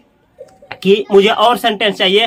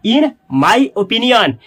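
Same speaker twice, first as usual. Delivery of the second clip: very slow drill; much slower than usual. Shown as a demonstration. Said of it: "अंग्रेजी में ऐसे बोलिएगा".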